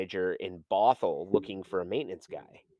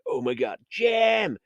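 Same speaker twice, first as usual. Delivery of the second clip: rising to a real shout on Jim; retold yell; 10 semitones higher, 4 dB louder, slower than usual. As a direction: call the name across the lobby, loud and high. Retelling calling out to coworker.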